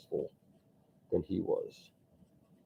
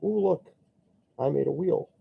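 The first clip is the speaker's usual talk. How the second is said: much higher, silly boastful voice; mock latecomer; 9 semitones higher than usual. Copycat inventor showing off his wheel, in a silly high voice. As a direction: squeak it out like a proud copycat.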